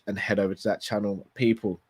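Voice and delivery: croaky, tired voice. Real, not acted. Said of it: "my croaky slash tired voice".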